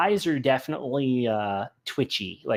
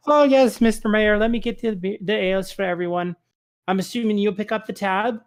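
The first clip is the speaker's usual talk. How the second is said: high, bright-voiced Irish innkeeper, louder; a lilting soft Irish accent, pitched up; 9 semitones higher, 3 dB louder than usual. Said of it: "I did a soft Irish accent for her".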